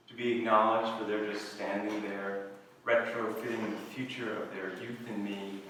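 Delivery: composed verse recital, pausing between phrases; measured literary reading; poetry reading. Acted. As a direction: read it as a poem, opening strong then settling into an even delivery. Reads second poem aloud.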